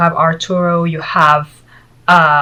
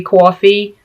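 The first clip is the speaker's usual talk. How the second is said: coffee with a rounded New York "aw"; New York accent. Shown as a demonstration. Admitting she catches herself saying it this way, New York accent. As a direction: slip into a New York "cawfee". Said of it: "I find myself saying that".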